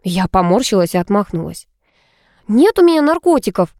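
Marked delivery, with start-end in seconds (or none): 2.5-3.7 high-pitched indignant denial; cross, raised-voice retort; angry. A narrator's reading. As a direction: snap back crossly. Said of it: "рассерженно ответила я Артёму".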